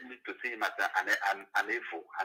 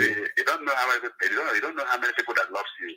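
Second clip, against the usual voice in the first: caller over a phone speaker; 2 semitones higher, 4 dB louder, faster than usual. Real, not acted. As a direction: voice coming through a phone line. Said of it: "Mazi, you are on speaker".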